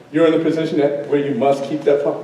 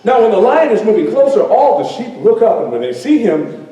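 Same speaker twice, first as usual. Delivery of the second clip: lively storyteller narration with swelling pitch; animated storytelling; 6 semitones higher than usual. Acted. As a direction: tell it vividly to a crowd, savoring the surprises.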